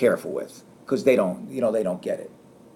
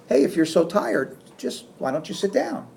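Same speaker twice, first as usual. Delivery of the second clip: sarcastic; 6 semitones higher, 4 dB quieter than usual. Shown as a demonstration. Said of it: "I'm saying it in a sarcastic way".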